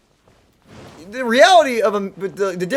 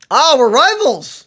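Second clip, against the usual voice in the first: loud, slow delighted cry; happy shout of rivals; gleeful; 7 semitones higher, 10 dB louder, slower than usual. Real, not acted. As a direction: relish the rivalry. Gleeful at being called enemies.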